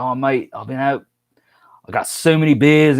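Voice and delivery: put-on hushed drunk mate quote; whispering. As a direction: whisper it like a tipsy friend.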